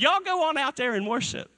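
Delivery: a light, easygoing Pharaoh; mock Pharaoh. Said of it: "He said".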